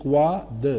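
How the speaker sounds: گواد as "gwaa-duh", lips rounded on the w; rounded w sound. Shown as a demonstration. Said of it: "lips کو round کرنا ہے".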